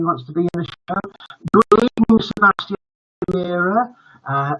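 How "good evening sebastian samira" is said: excited greeting. Real, not acted. Greeting the kids on the stream.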